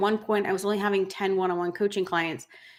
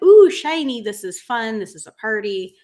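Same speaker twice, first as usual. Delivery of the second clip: mock-delighted squeal, much higher and louder on ooh; delighted fan; 4 semitones higher, 9 dB louder than usual. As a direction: gush like a kid seeing glitter, lightly played. Glitter fans react delightedly.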